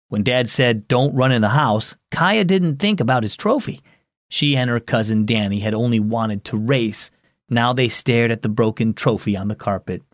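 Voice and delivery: put-on gentle storyteller reading to children; story narration. A narrator's reading. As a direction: read the story warmly to kids. Narrates story with character voices.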